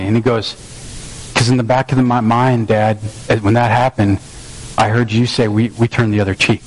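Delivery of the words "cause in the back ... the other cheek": low, halting, choked-back emotion; holding back tears. Real, not acted. Father retelling his son's words, holding back tears. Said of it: "I'm trying to hold back tears".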